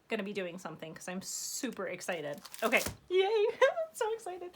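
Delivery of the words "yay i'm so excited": laughing. Real, not acted. Giggling over new supplies.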